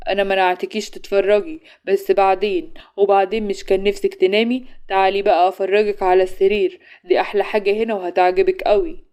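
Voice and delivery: cunning voice. Acted. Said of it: "غانم رد بصوت ماكر".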